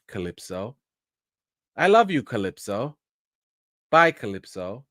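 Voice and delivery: overly sentimental grandma, repeating the name; lightly voiced grandma, syrupy and formal; mock grandmother. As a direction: ham up a stiff, doting grandmother. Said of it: "I'm just gonna reenact it for you".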